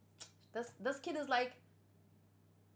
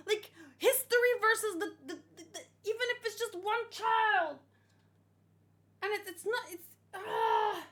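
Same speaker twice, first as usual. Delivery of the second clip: impassioned rant; 6 semitones higher than usual. Real, not acted. Reactor passionately defending the choice.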